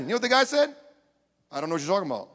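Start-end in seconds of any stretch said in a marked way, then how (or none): 1.5-2.3 low, soft disowning; acted evasive denial. Scared disciple denying to accusers, low and soft. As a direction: shrink it down low and quiet.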